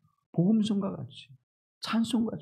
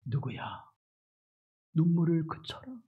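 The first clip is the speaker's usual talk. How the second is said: gentle comfort; 5 dB quieter than usual. Retold or imitated. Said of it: "눈물을 닦아주시면서".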